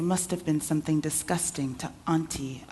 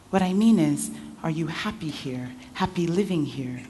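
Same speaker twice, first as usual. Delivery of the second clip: pressing louder; 3 dB louder than usual. Acted. Uncle pressing the girl.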